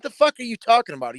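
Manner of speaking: mock outrage at a silly claim; retold indignant snap. Telling uncle his claim makes no sense, high incredulous. Arguing with uncle about fight.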